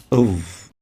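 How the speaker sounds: a dark, heavy "Uv"; ظ مفخمة; emphatic Arabic ظ. Shown as a demonstration. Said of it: "it produces the va".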